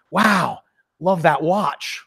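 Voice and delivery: slow, drawn-out wow of admiration; acted admiration. Salesman admiring someone's watch to stir emotion, acted admiration. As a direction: stretch it out, openly impressed.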